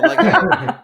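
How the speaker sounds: high, loud holler through the ceiling; hammed-up shout for food; yelling upstairs. Living downstairs from the parents, yelling up to them. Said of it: "you're yelling".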